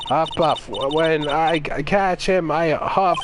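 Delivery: a lightly voiced huffing old woman; cranky old lady. Streamer voicing the old lady, lightly huffing. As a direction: puff out the words like a winded granny.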